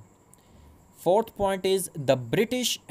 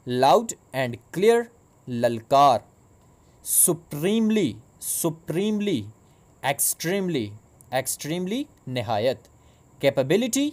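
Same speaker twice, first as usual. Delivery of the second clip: vocabulary drill. Shown as a demonstration. Teacher to students pronouncing new words, in a clear drill voice. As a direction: pronounce each word so the class can echo it. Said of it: "So pronounce with me".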